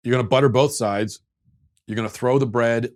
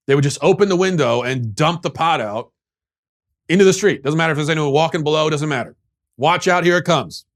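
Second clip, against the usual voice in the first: mock outrage; 4 semitones higher, 5 dB louder than usual. Rant about ancestors dumping pots.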